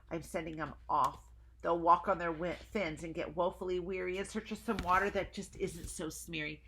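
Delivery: mildly voiced Lorax mourning; lightly voiced Lorax. Lorax lines read to children.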